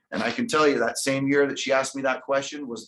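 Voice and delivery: ordinary delivery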